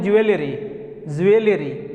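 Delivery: "ज्वेलरी" as ju-e-le-ree, with an extra "e"; "ज्वेलरी" with "we" sounded after the j; mispronunciation demo. Shown as a demonstration. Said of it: "जो completely गलत है".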